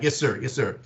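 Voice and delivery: crisp imitation of American politeness; polite American. Shown as a demonstration. Australian repeating how an American would answer, politely. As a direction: demonstrate a respectful American reply. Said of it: "really politely".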